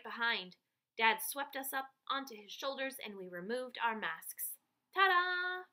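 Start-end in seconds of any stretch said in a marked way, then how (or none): 4.9-5.7 loud high triumphant reveal. A narrator's reading. Kids unmasking for the audience, loud triumphant ta-da. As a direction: sell the big finish.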